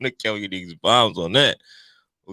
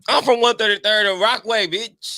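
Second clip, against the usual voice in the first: higher, louder street-tough boast; playful hood bravado, higher and louder; mock tough brag; 10 semitones higher, 5 dB louder than usual. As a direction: puff up and claim the block.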